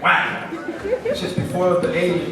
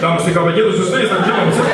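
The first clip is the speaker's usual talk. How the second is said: radio announcer; 2 semitones higher, 7 dB louder, much faster than usual. Acted. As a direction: announce it like a Latino FM station host. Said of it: "speaking in frequencies of F M radio".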